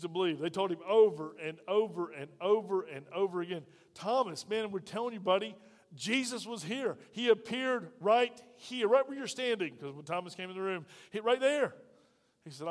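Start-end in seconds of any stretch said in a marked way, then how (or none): 3.9-9.8 insistent pleading. Acted. Disciples urging Thomas that Jesus was here, climbing higher. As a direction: beg a stubborn friend to believe you.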